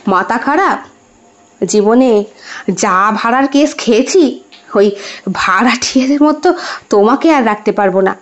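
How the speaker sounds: a hint of a husband putting his foot down; husband refusing. Husband refuses to keep his wife among tenants, lightly voiced refusal.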